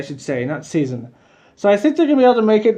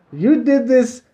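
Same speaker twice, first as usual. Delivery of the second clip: straight-up confrontation; slower than usual. Retold or imitated. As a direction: tell them off straight, in mild imitation. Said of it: "straight up talking to him".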